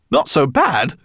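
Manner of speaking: high loud disbelief on NOT; incredulous cry. A narrator's reading. Professor repeating Ben's words, incredulous. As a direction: echo it back in shock. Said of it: "cried the professor".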